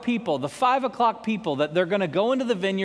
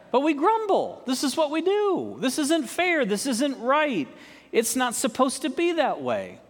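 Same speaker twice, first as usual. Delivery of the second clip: higher, whiny complaining; mock whining; 6 semitones higher than usual. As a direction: whine like a sulking child. Mock grumbling, much higher.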